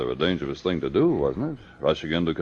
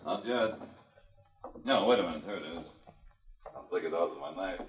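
quiet murmur; 13 dB quieter than usual. Acted. Finds the bullet, murmurs to himself.

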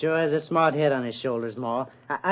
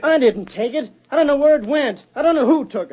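high, louder, near-breaking protest; panicked denial; 8 semitones higher, 3 dB louder than usual. Acted. Cornered Cole protests to the sheriff, high and panicked. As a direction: cry out your innocence, cornered.

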